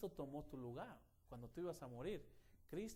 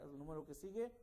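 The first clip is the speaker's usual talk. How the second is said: ordinary talk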